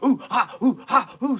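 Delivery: dog barking. Retold or imitated. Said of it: "all the barking you ever heard".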